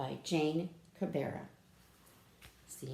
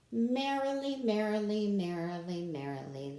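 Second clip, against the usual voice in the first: merrily cheerfully descending; happy falling merrily; 4 dB louder than usual. Shown as a demonstration. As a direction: bounce merrily down a staircase. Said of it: "See how happy and excited they are?".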